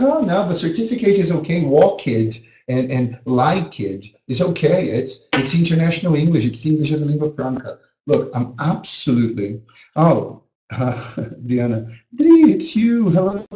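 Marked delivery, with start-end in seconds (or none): 0.0-7.8 higher, defensive mock excuse. Teacher mocks colleagues excusing their mistakes, lightly mocking. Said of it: "It's like". 12.1-13.5 delighted, higher and louder hello; light up at a friend's name; excited greeting. Real, not acted. Teacher spots a friend in the chat, excited greeting.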